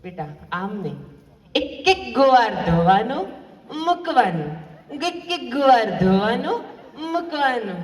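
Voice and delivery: slow, lightly voiced nagging mother-in-law; fussy mother-in-law. Mother-in-law lecturing her new daughter-in-law, slow and fussy. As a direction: spell it out word by word like a pedantic old aunt. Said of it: "પછી સાસુમાં બોલ્યા".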